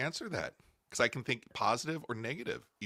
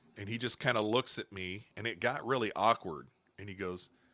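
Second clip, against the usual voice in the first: normal talking voice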